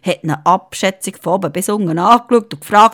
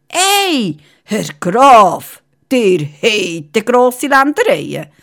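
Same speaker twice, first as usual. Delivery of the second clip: amazed king; 2 semitones higher, slower than usual. Acted. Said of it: "hat der König gestaunt".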